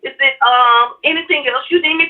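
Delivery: imitating dad soothing mom; placating husband. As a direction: settle her down sweetly. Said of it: "my dad said".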